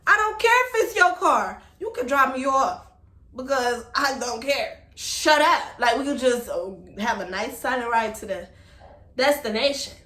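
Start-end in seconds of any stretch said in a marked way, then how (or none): 0.1-5.6 loud retorts from the car. Retold or imitated. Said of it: "They're like".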